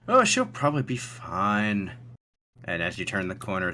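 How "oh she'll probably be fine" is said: slow, dismissive character voice; Thatch. Acted. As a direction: wave it away, drawing the words out. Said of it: "Thatch kind of waves it away and says".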